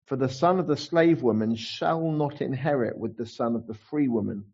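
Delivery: slow, measured Bible reading; scripture reading. Acted. Preacher reading the Bible text to the congregation, slow and measured. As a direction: read the verse slowly and solemnly.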